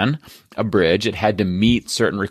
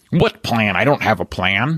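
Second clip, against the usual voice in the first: put-on young teen voice with an old man's sound. Retelling what a 13-year-old said about his bridge project: 13-year-old kid voice. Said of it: "Why does my 13-year-old kid voice sound like an old man who runs a summer camp".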